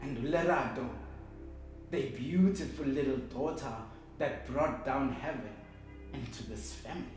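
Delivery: soft, low, wistful remembrance; hushed funeral tenderness; tender mourning. Acted. Remembering the dead child.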